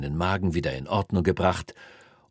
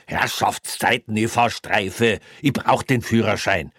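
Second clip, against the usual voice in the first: exasperated plea; 3 semitones higher, 4 dB louder than usual. Acted. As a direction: plead in frustration. Kreutner pleads exasperated.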